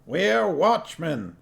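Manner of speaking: a high voice for the dwarf Cuddy, alarmed. A narrator's reading. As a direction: squeak it out like a startled dwarf.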